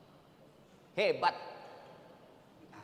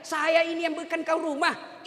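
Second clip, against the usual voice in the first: proud husband. Retold or imitated. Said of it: "itu setan yang bicara".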